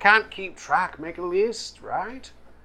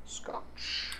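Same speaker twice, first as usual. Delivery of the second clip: whispered; 16 dB quieter than usual. Acted. Whispered drink request.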